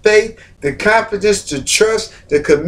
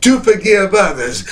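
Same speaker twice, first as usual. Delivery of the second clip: preaching shout. Real, not acted. Preacher to the church, shouting with full force.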